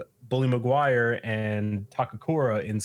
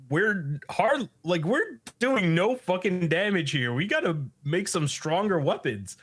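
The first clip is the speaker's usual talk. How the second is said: raised-pitch anime bickering; agitated complaint; 6 semitones higher than usual. Retold or imitated. Takakura to his partner in the fight, agitated.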